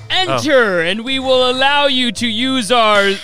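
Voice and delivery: loud, slow, theatrical vampire; over-reassure the guest grandly; hammed-up vampire host. Vampire host assures stranded guest they aren't vampires.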